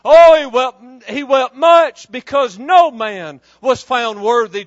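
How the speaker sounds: preacher shouting the climax to his congregation; preaching shout. Real, not acted. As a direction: belt it out like a preacher at full force.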